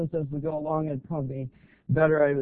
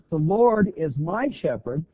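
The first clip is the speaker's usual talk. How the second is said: "The Lord" leaned on, slow and louder; stress on the Lord; 6 dB louder than usual. Shown as a demonstration. Preacher to congregation, slow stress on "The Lord". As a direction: lean on "The Lord" slowly. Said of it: "you can emphasize different words there".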